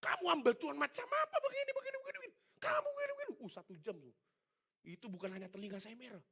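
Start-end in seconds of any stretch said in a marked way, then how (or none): 0.0-3.3 high, loud furious tirade; raging mentor. Retold or imitated. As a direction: scream it like a mentor on the rampage. Udah ngamuk-ngamuk.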